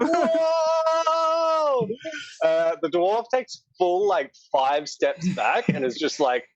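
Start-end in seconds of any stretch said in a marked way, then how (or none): 0.0-1.9 long, high-pitched "whoa"; astonished crowd whoa. Acted. Dock workers react to the cat's rap, long high whoa. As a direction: stretch a high, hammed-up whoa. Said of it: "they're like".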